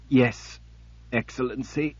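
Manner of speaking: choked, strained reply; strangled voice. Acted. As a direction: force the words out through pain. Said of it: "managed to say in a strangled voice".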